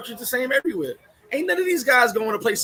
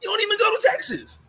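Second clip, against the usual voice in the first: higher, disbelieving; incredulous jab at the bragger; incredulous retort; 14 semitones higher than usual. Real, not acted. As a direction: call out the bluff.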